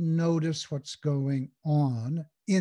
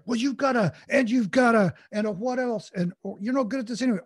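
higher, louder pestering voice in the head; nagging inner voice; 6 semitones higher, 5 dB louder than usual. Acted. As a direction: act out the nagging, critical inner voice. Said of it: "all of a sudden it's like".

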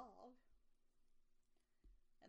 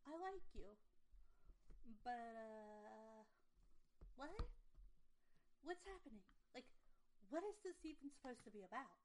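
baffled confusion. Retold or imitated. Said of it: "I'm just like".

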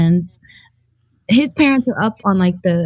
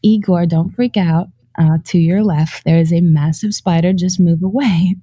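calm, slightly lowered warning, retold; 4 semitones lower than usual. Warning boyfriend's father about the spider, very calmly. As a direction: keep it even and controlled, imitating composure. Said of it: "I say very calmly".

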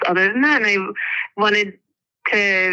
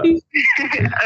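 small high nervous laugh; 9 semitones higher than usual. Real, not acted. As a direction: giggle through the nerves. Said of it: "I'll do the nervous laugh together".

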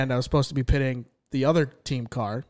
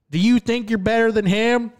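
higher, lightly put-on crew chief voice; gruff boss impression; 8 semitones higher, 4 dB louder than usual. Crew chief sizing him up, weak gruff impression. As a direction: ask it like the skeptical boss, not gruff enough. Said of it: "Not enough gruff in the voice".

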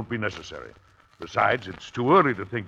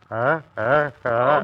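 sneeze building up; 2 semitones higher, 5 dB louder, much slower than usual. Acted. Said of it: "Oh, bless you".

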